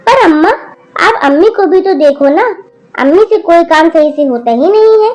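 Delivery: loud complaining daughter. Acted. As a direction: complain hotly to granny. Daughter complains loudly to grandmother. (दादी से ज़ोर से शिकायत करती बेटी)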